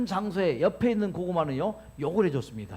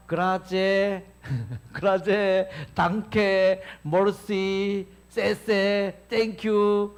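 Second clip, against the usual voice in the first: thanks in many languages; 4 dB louder, much slower than usual. Shown as a demonstration. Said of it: "각 나라 말로".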